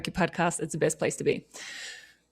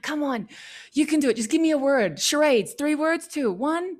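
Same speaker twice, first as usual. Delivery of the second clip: cheering on; 5 semitones higher than usual. Retold or imitated. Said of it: "You're like".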